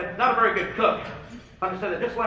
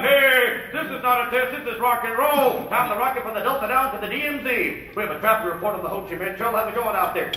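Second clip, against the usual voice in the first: radio DJ voice; 3 semitones higher than usual. Retold or imitated. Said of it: "Little flashback to Good Morning Vietnam".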